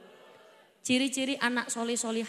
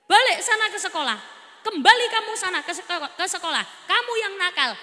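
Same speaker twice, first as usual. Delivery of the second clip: loud, higher mock father telling off his son; scolding father; 3 semitones higher, 5 dB louder than usual. Father scolds his son and sends him back, loud and higher. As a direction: scold the kid back to school.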